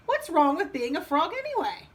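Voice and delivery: put-on a touch of childlike indignation; indignant frog. Frog objects to Dad's verdict, indignant.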